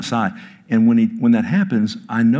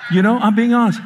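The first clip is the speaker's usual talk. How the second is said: loud laugh through the words, higher; 12 semitones higher, 6 dB louder, faster than usual. Real, not acted. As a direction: laugh it out, half apologizing. Bursts out laughing.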